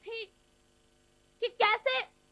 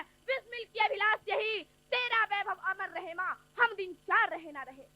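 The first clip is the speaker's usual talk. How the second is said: poem recitation. Acted. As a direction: recite the verse like a patriot's last wish. Bismil's farewell verse recited.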